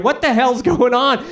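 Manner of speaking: wife shrieks at the chaos; startled wife yelling. Retold or imitated. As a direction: yell in shocked alarm. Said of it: "My wife hears".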